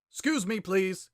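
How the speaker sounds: a hint of smug politeness; Sans voice. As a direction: sweetly ask to pass. Sans voiced in narrated fanfic.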